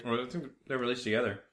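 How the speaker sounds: talking while eating pizza; mouth full. Real, not acted. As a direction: speak through a mouthful of pizza. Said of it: "I'm eating pizza again".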